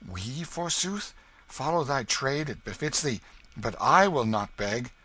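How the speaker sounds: put-on indignant young king. A narrator's reading. The King refusing Hugo's order to beg, haughty. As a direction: refuse as if begging were beneath you.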